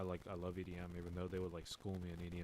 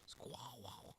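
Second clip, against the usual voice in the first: breathless, high awestruck squeak, much softer; stunned gasp; 5 semitones higher, 8 dB quieter than usual. Retold or imitated. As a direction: gasp it out, starstruck and speechless. Stunned reaction to DJ invite.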